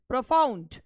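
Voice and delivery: "प्रोफाउंड" with unstressed प्रो, stressed फाउंड; stress on second syllable. Shown as a demonstration. Teacher repeating the example, stress on फाउंड in "प्रोफाउंड". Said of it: "यहाँ पर आवाज़ उठ रही है".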